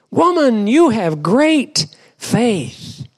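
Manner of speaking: high, drawn-out acclaim; exclaimed praise. Acted. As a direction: lift the pitch and stretch the praise. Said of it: "contrast this with his buddies".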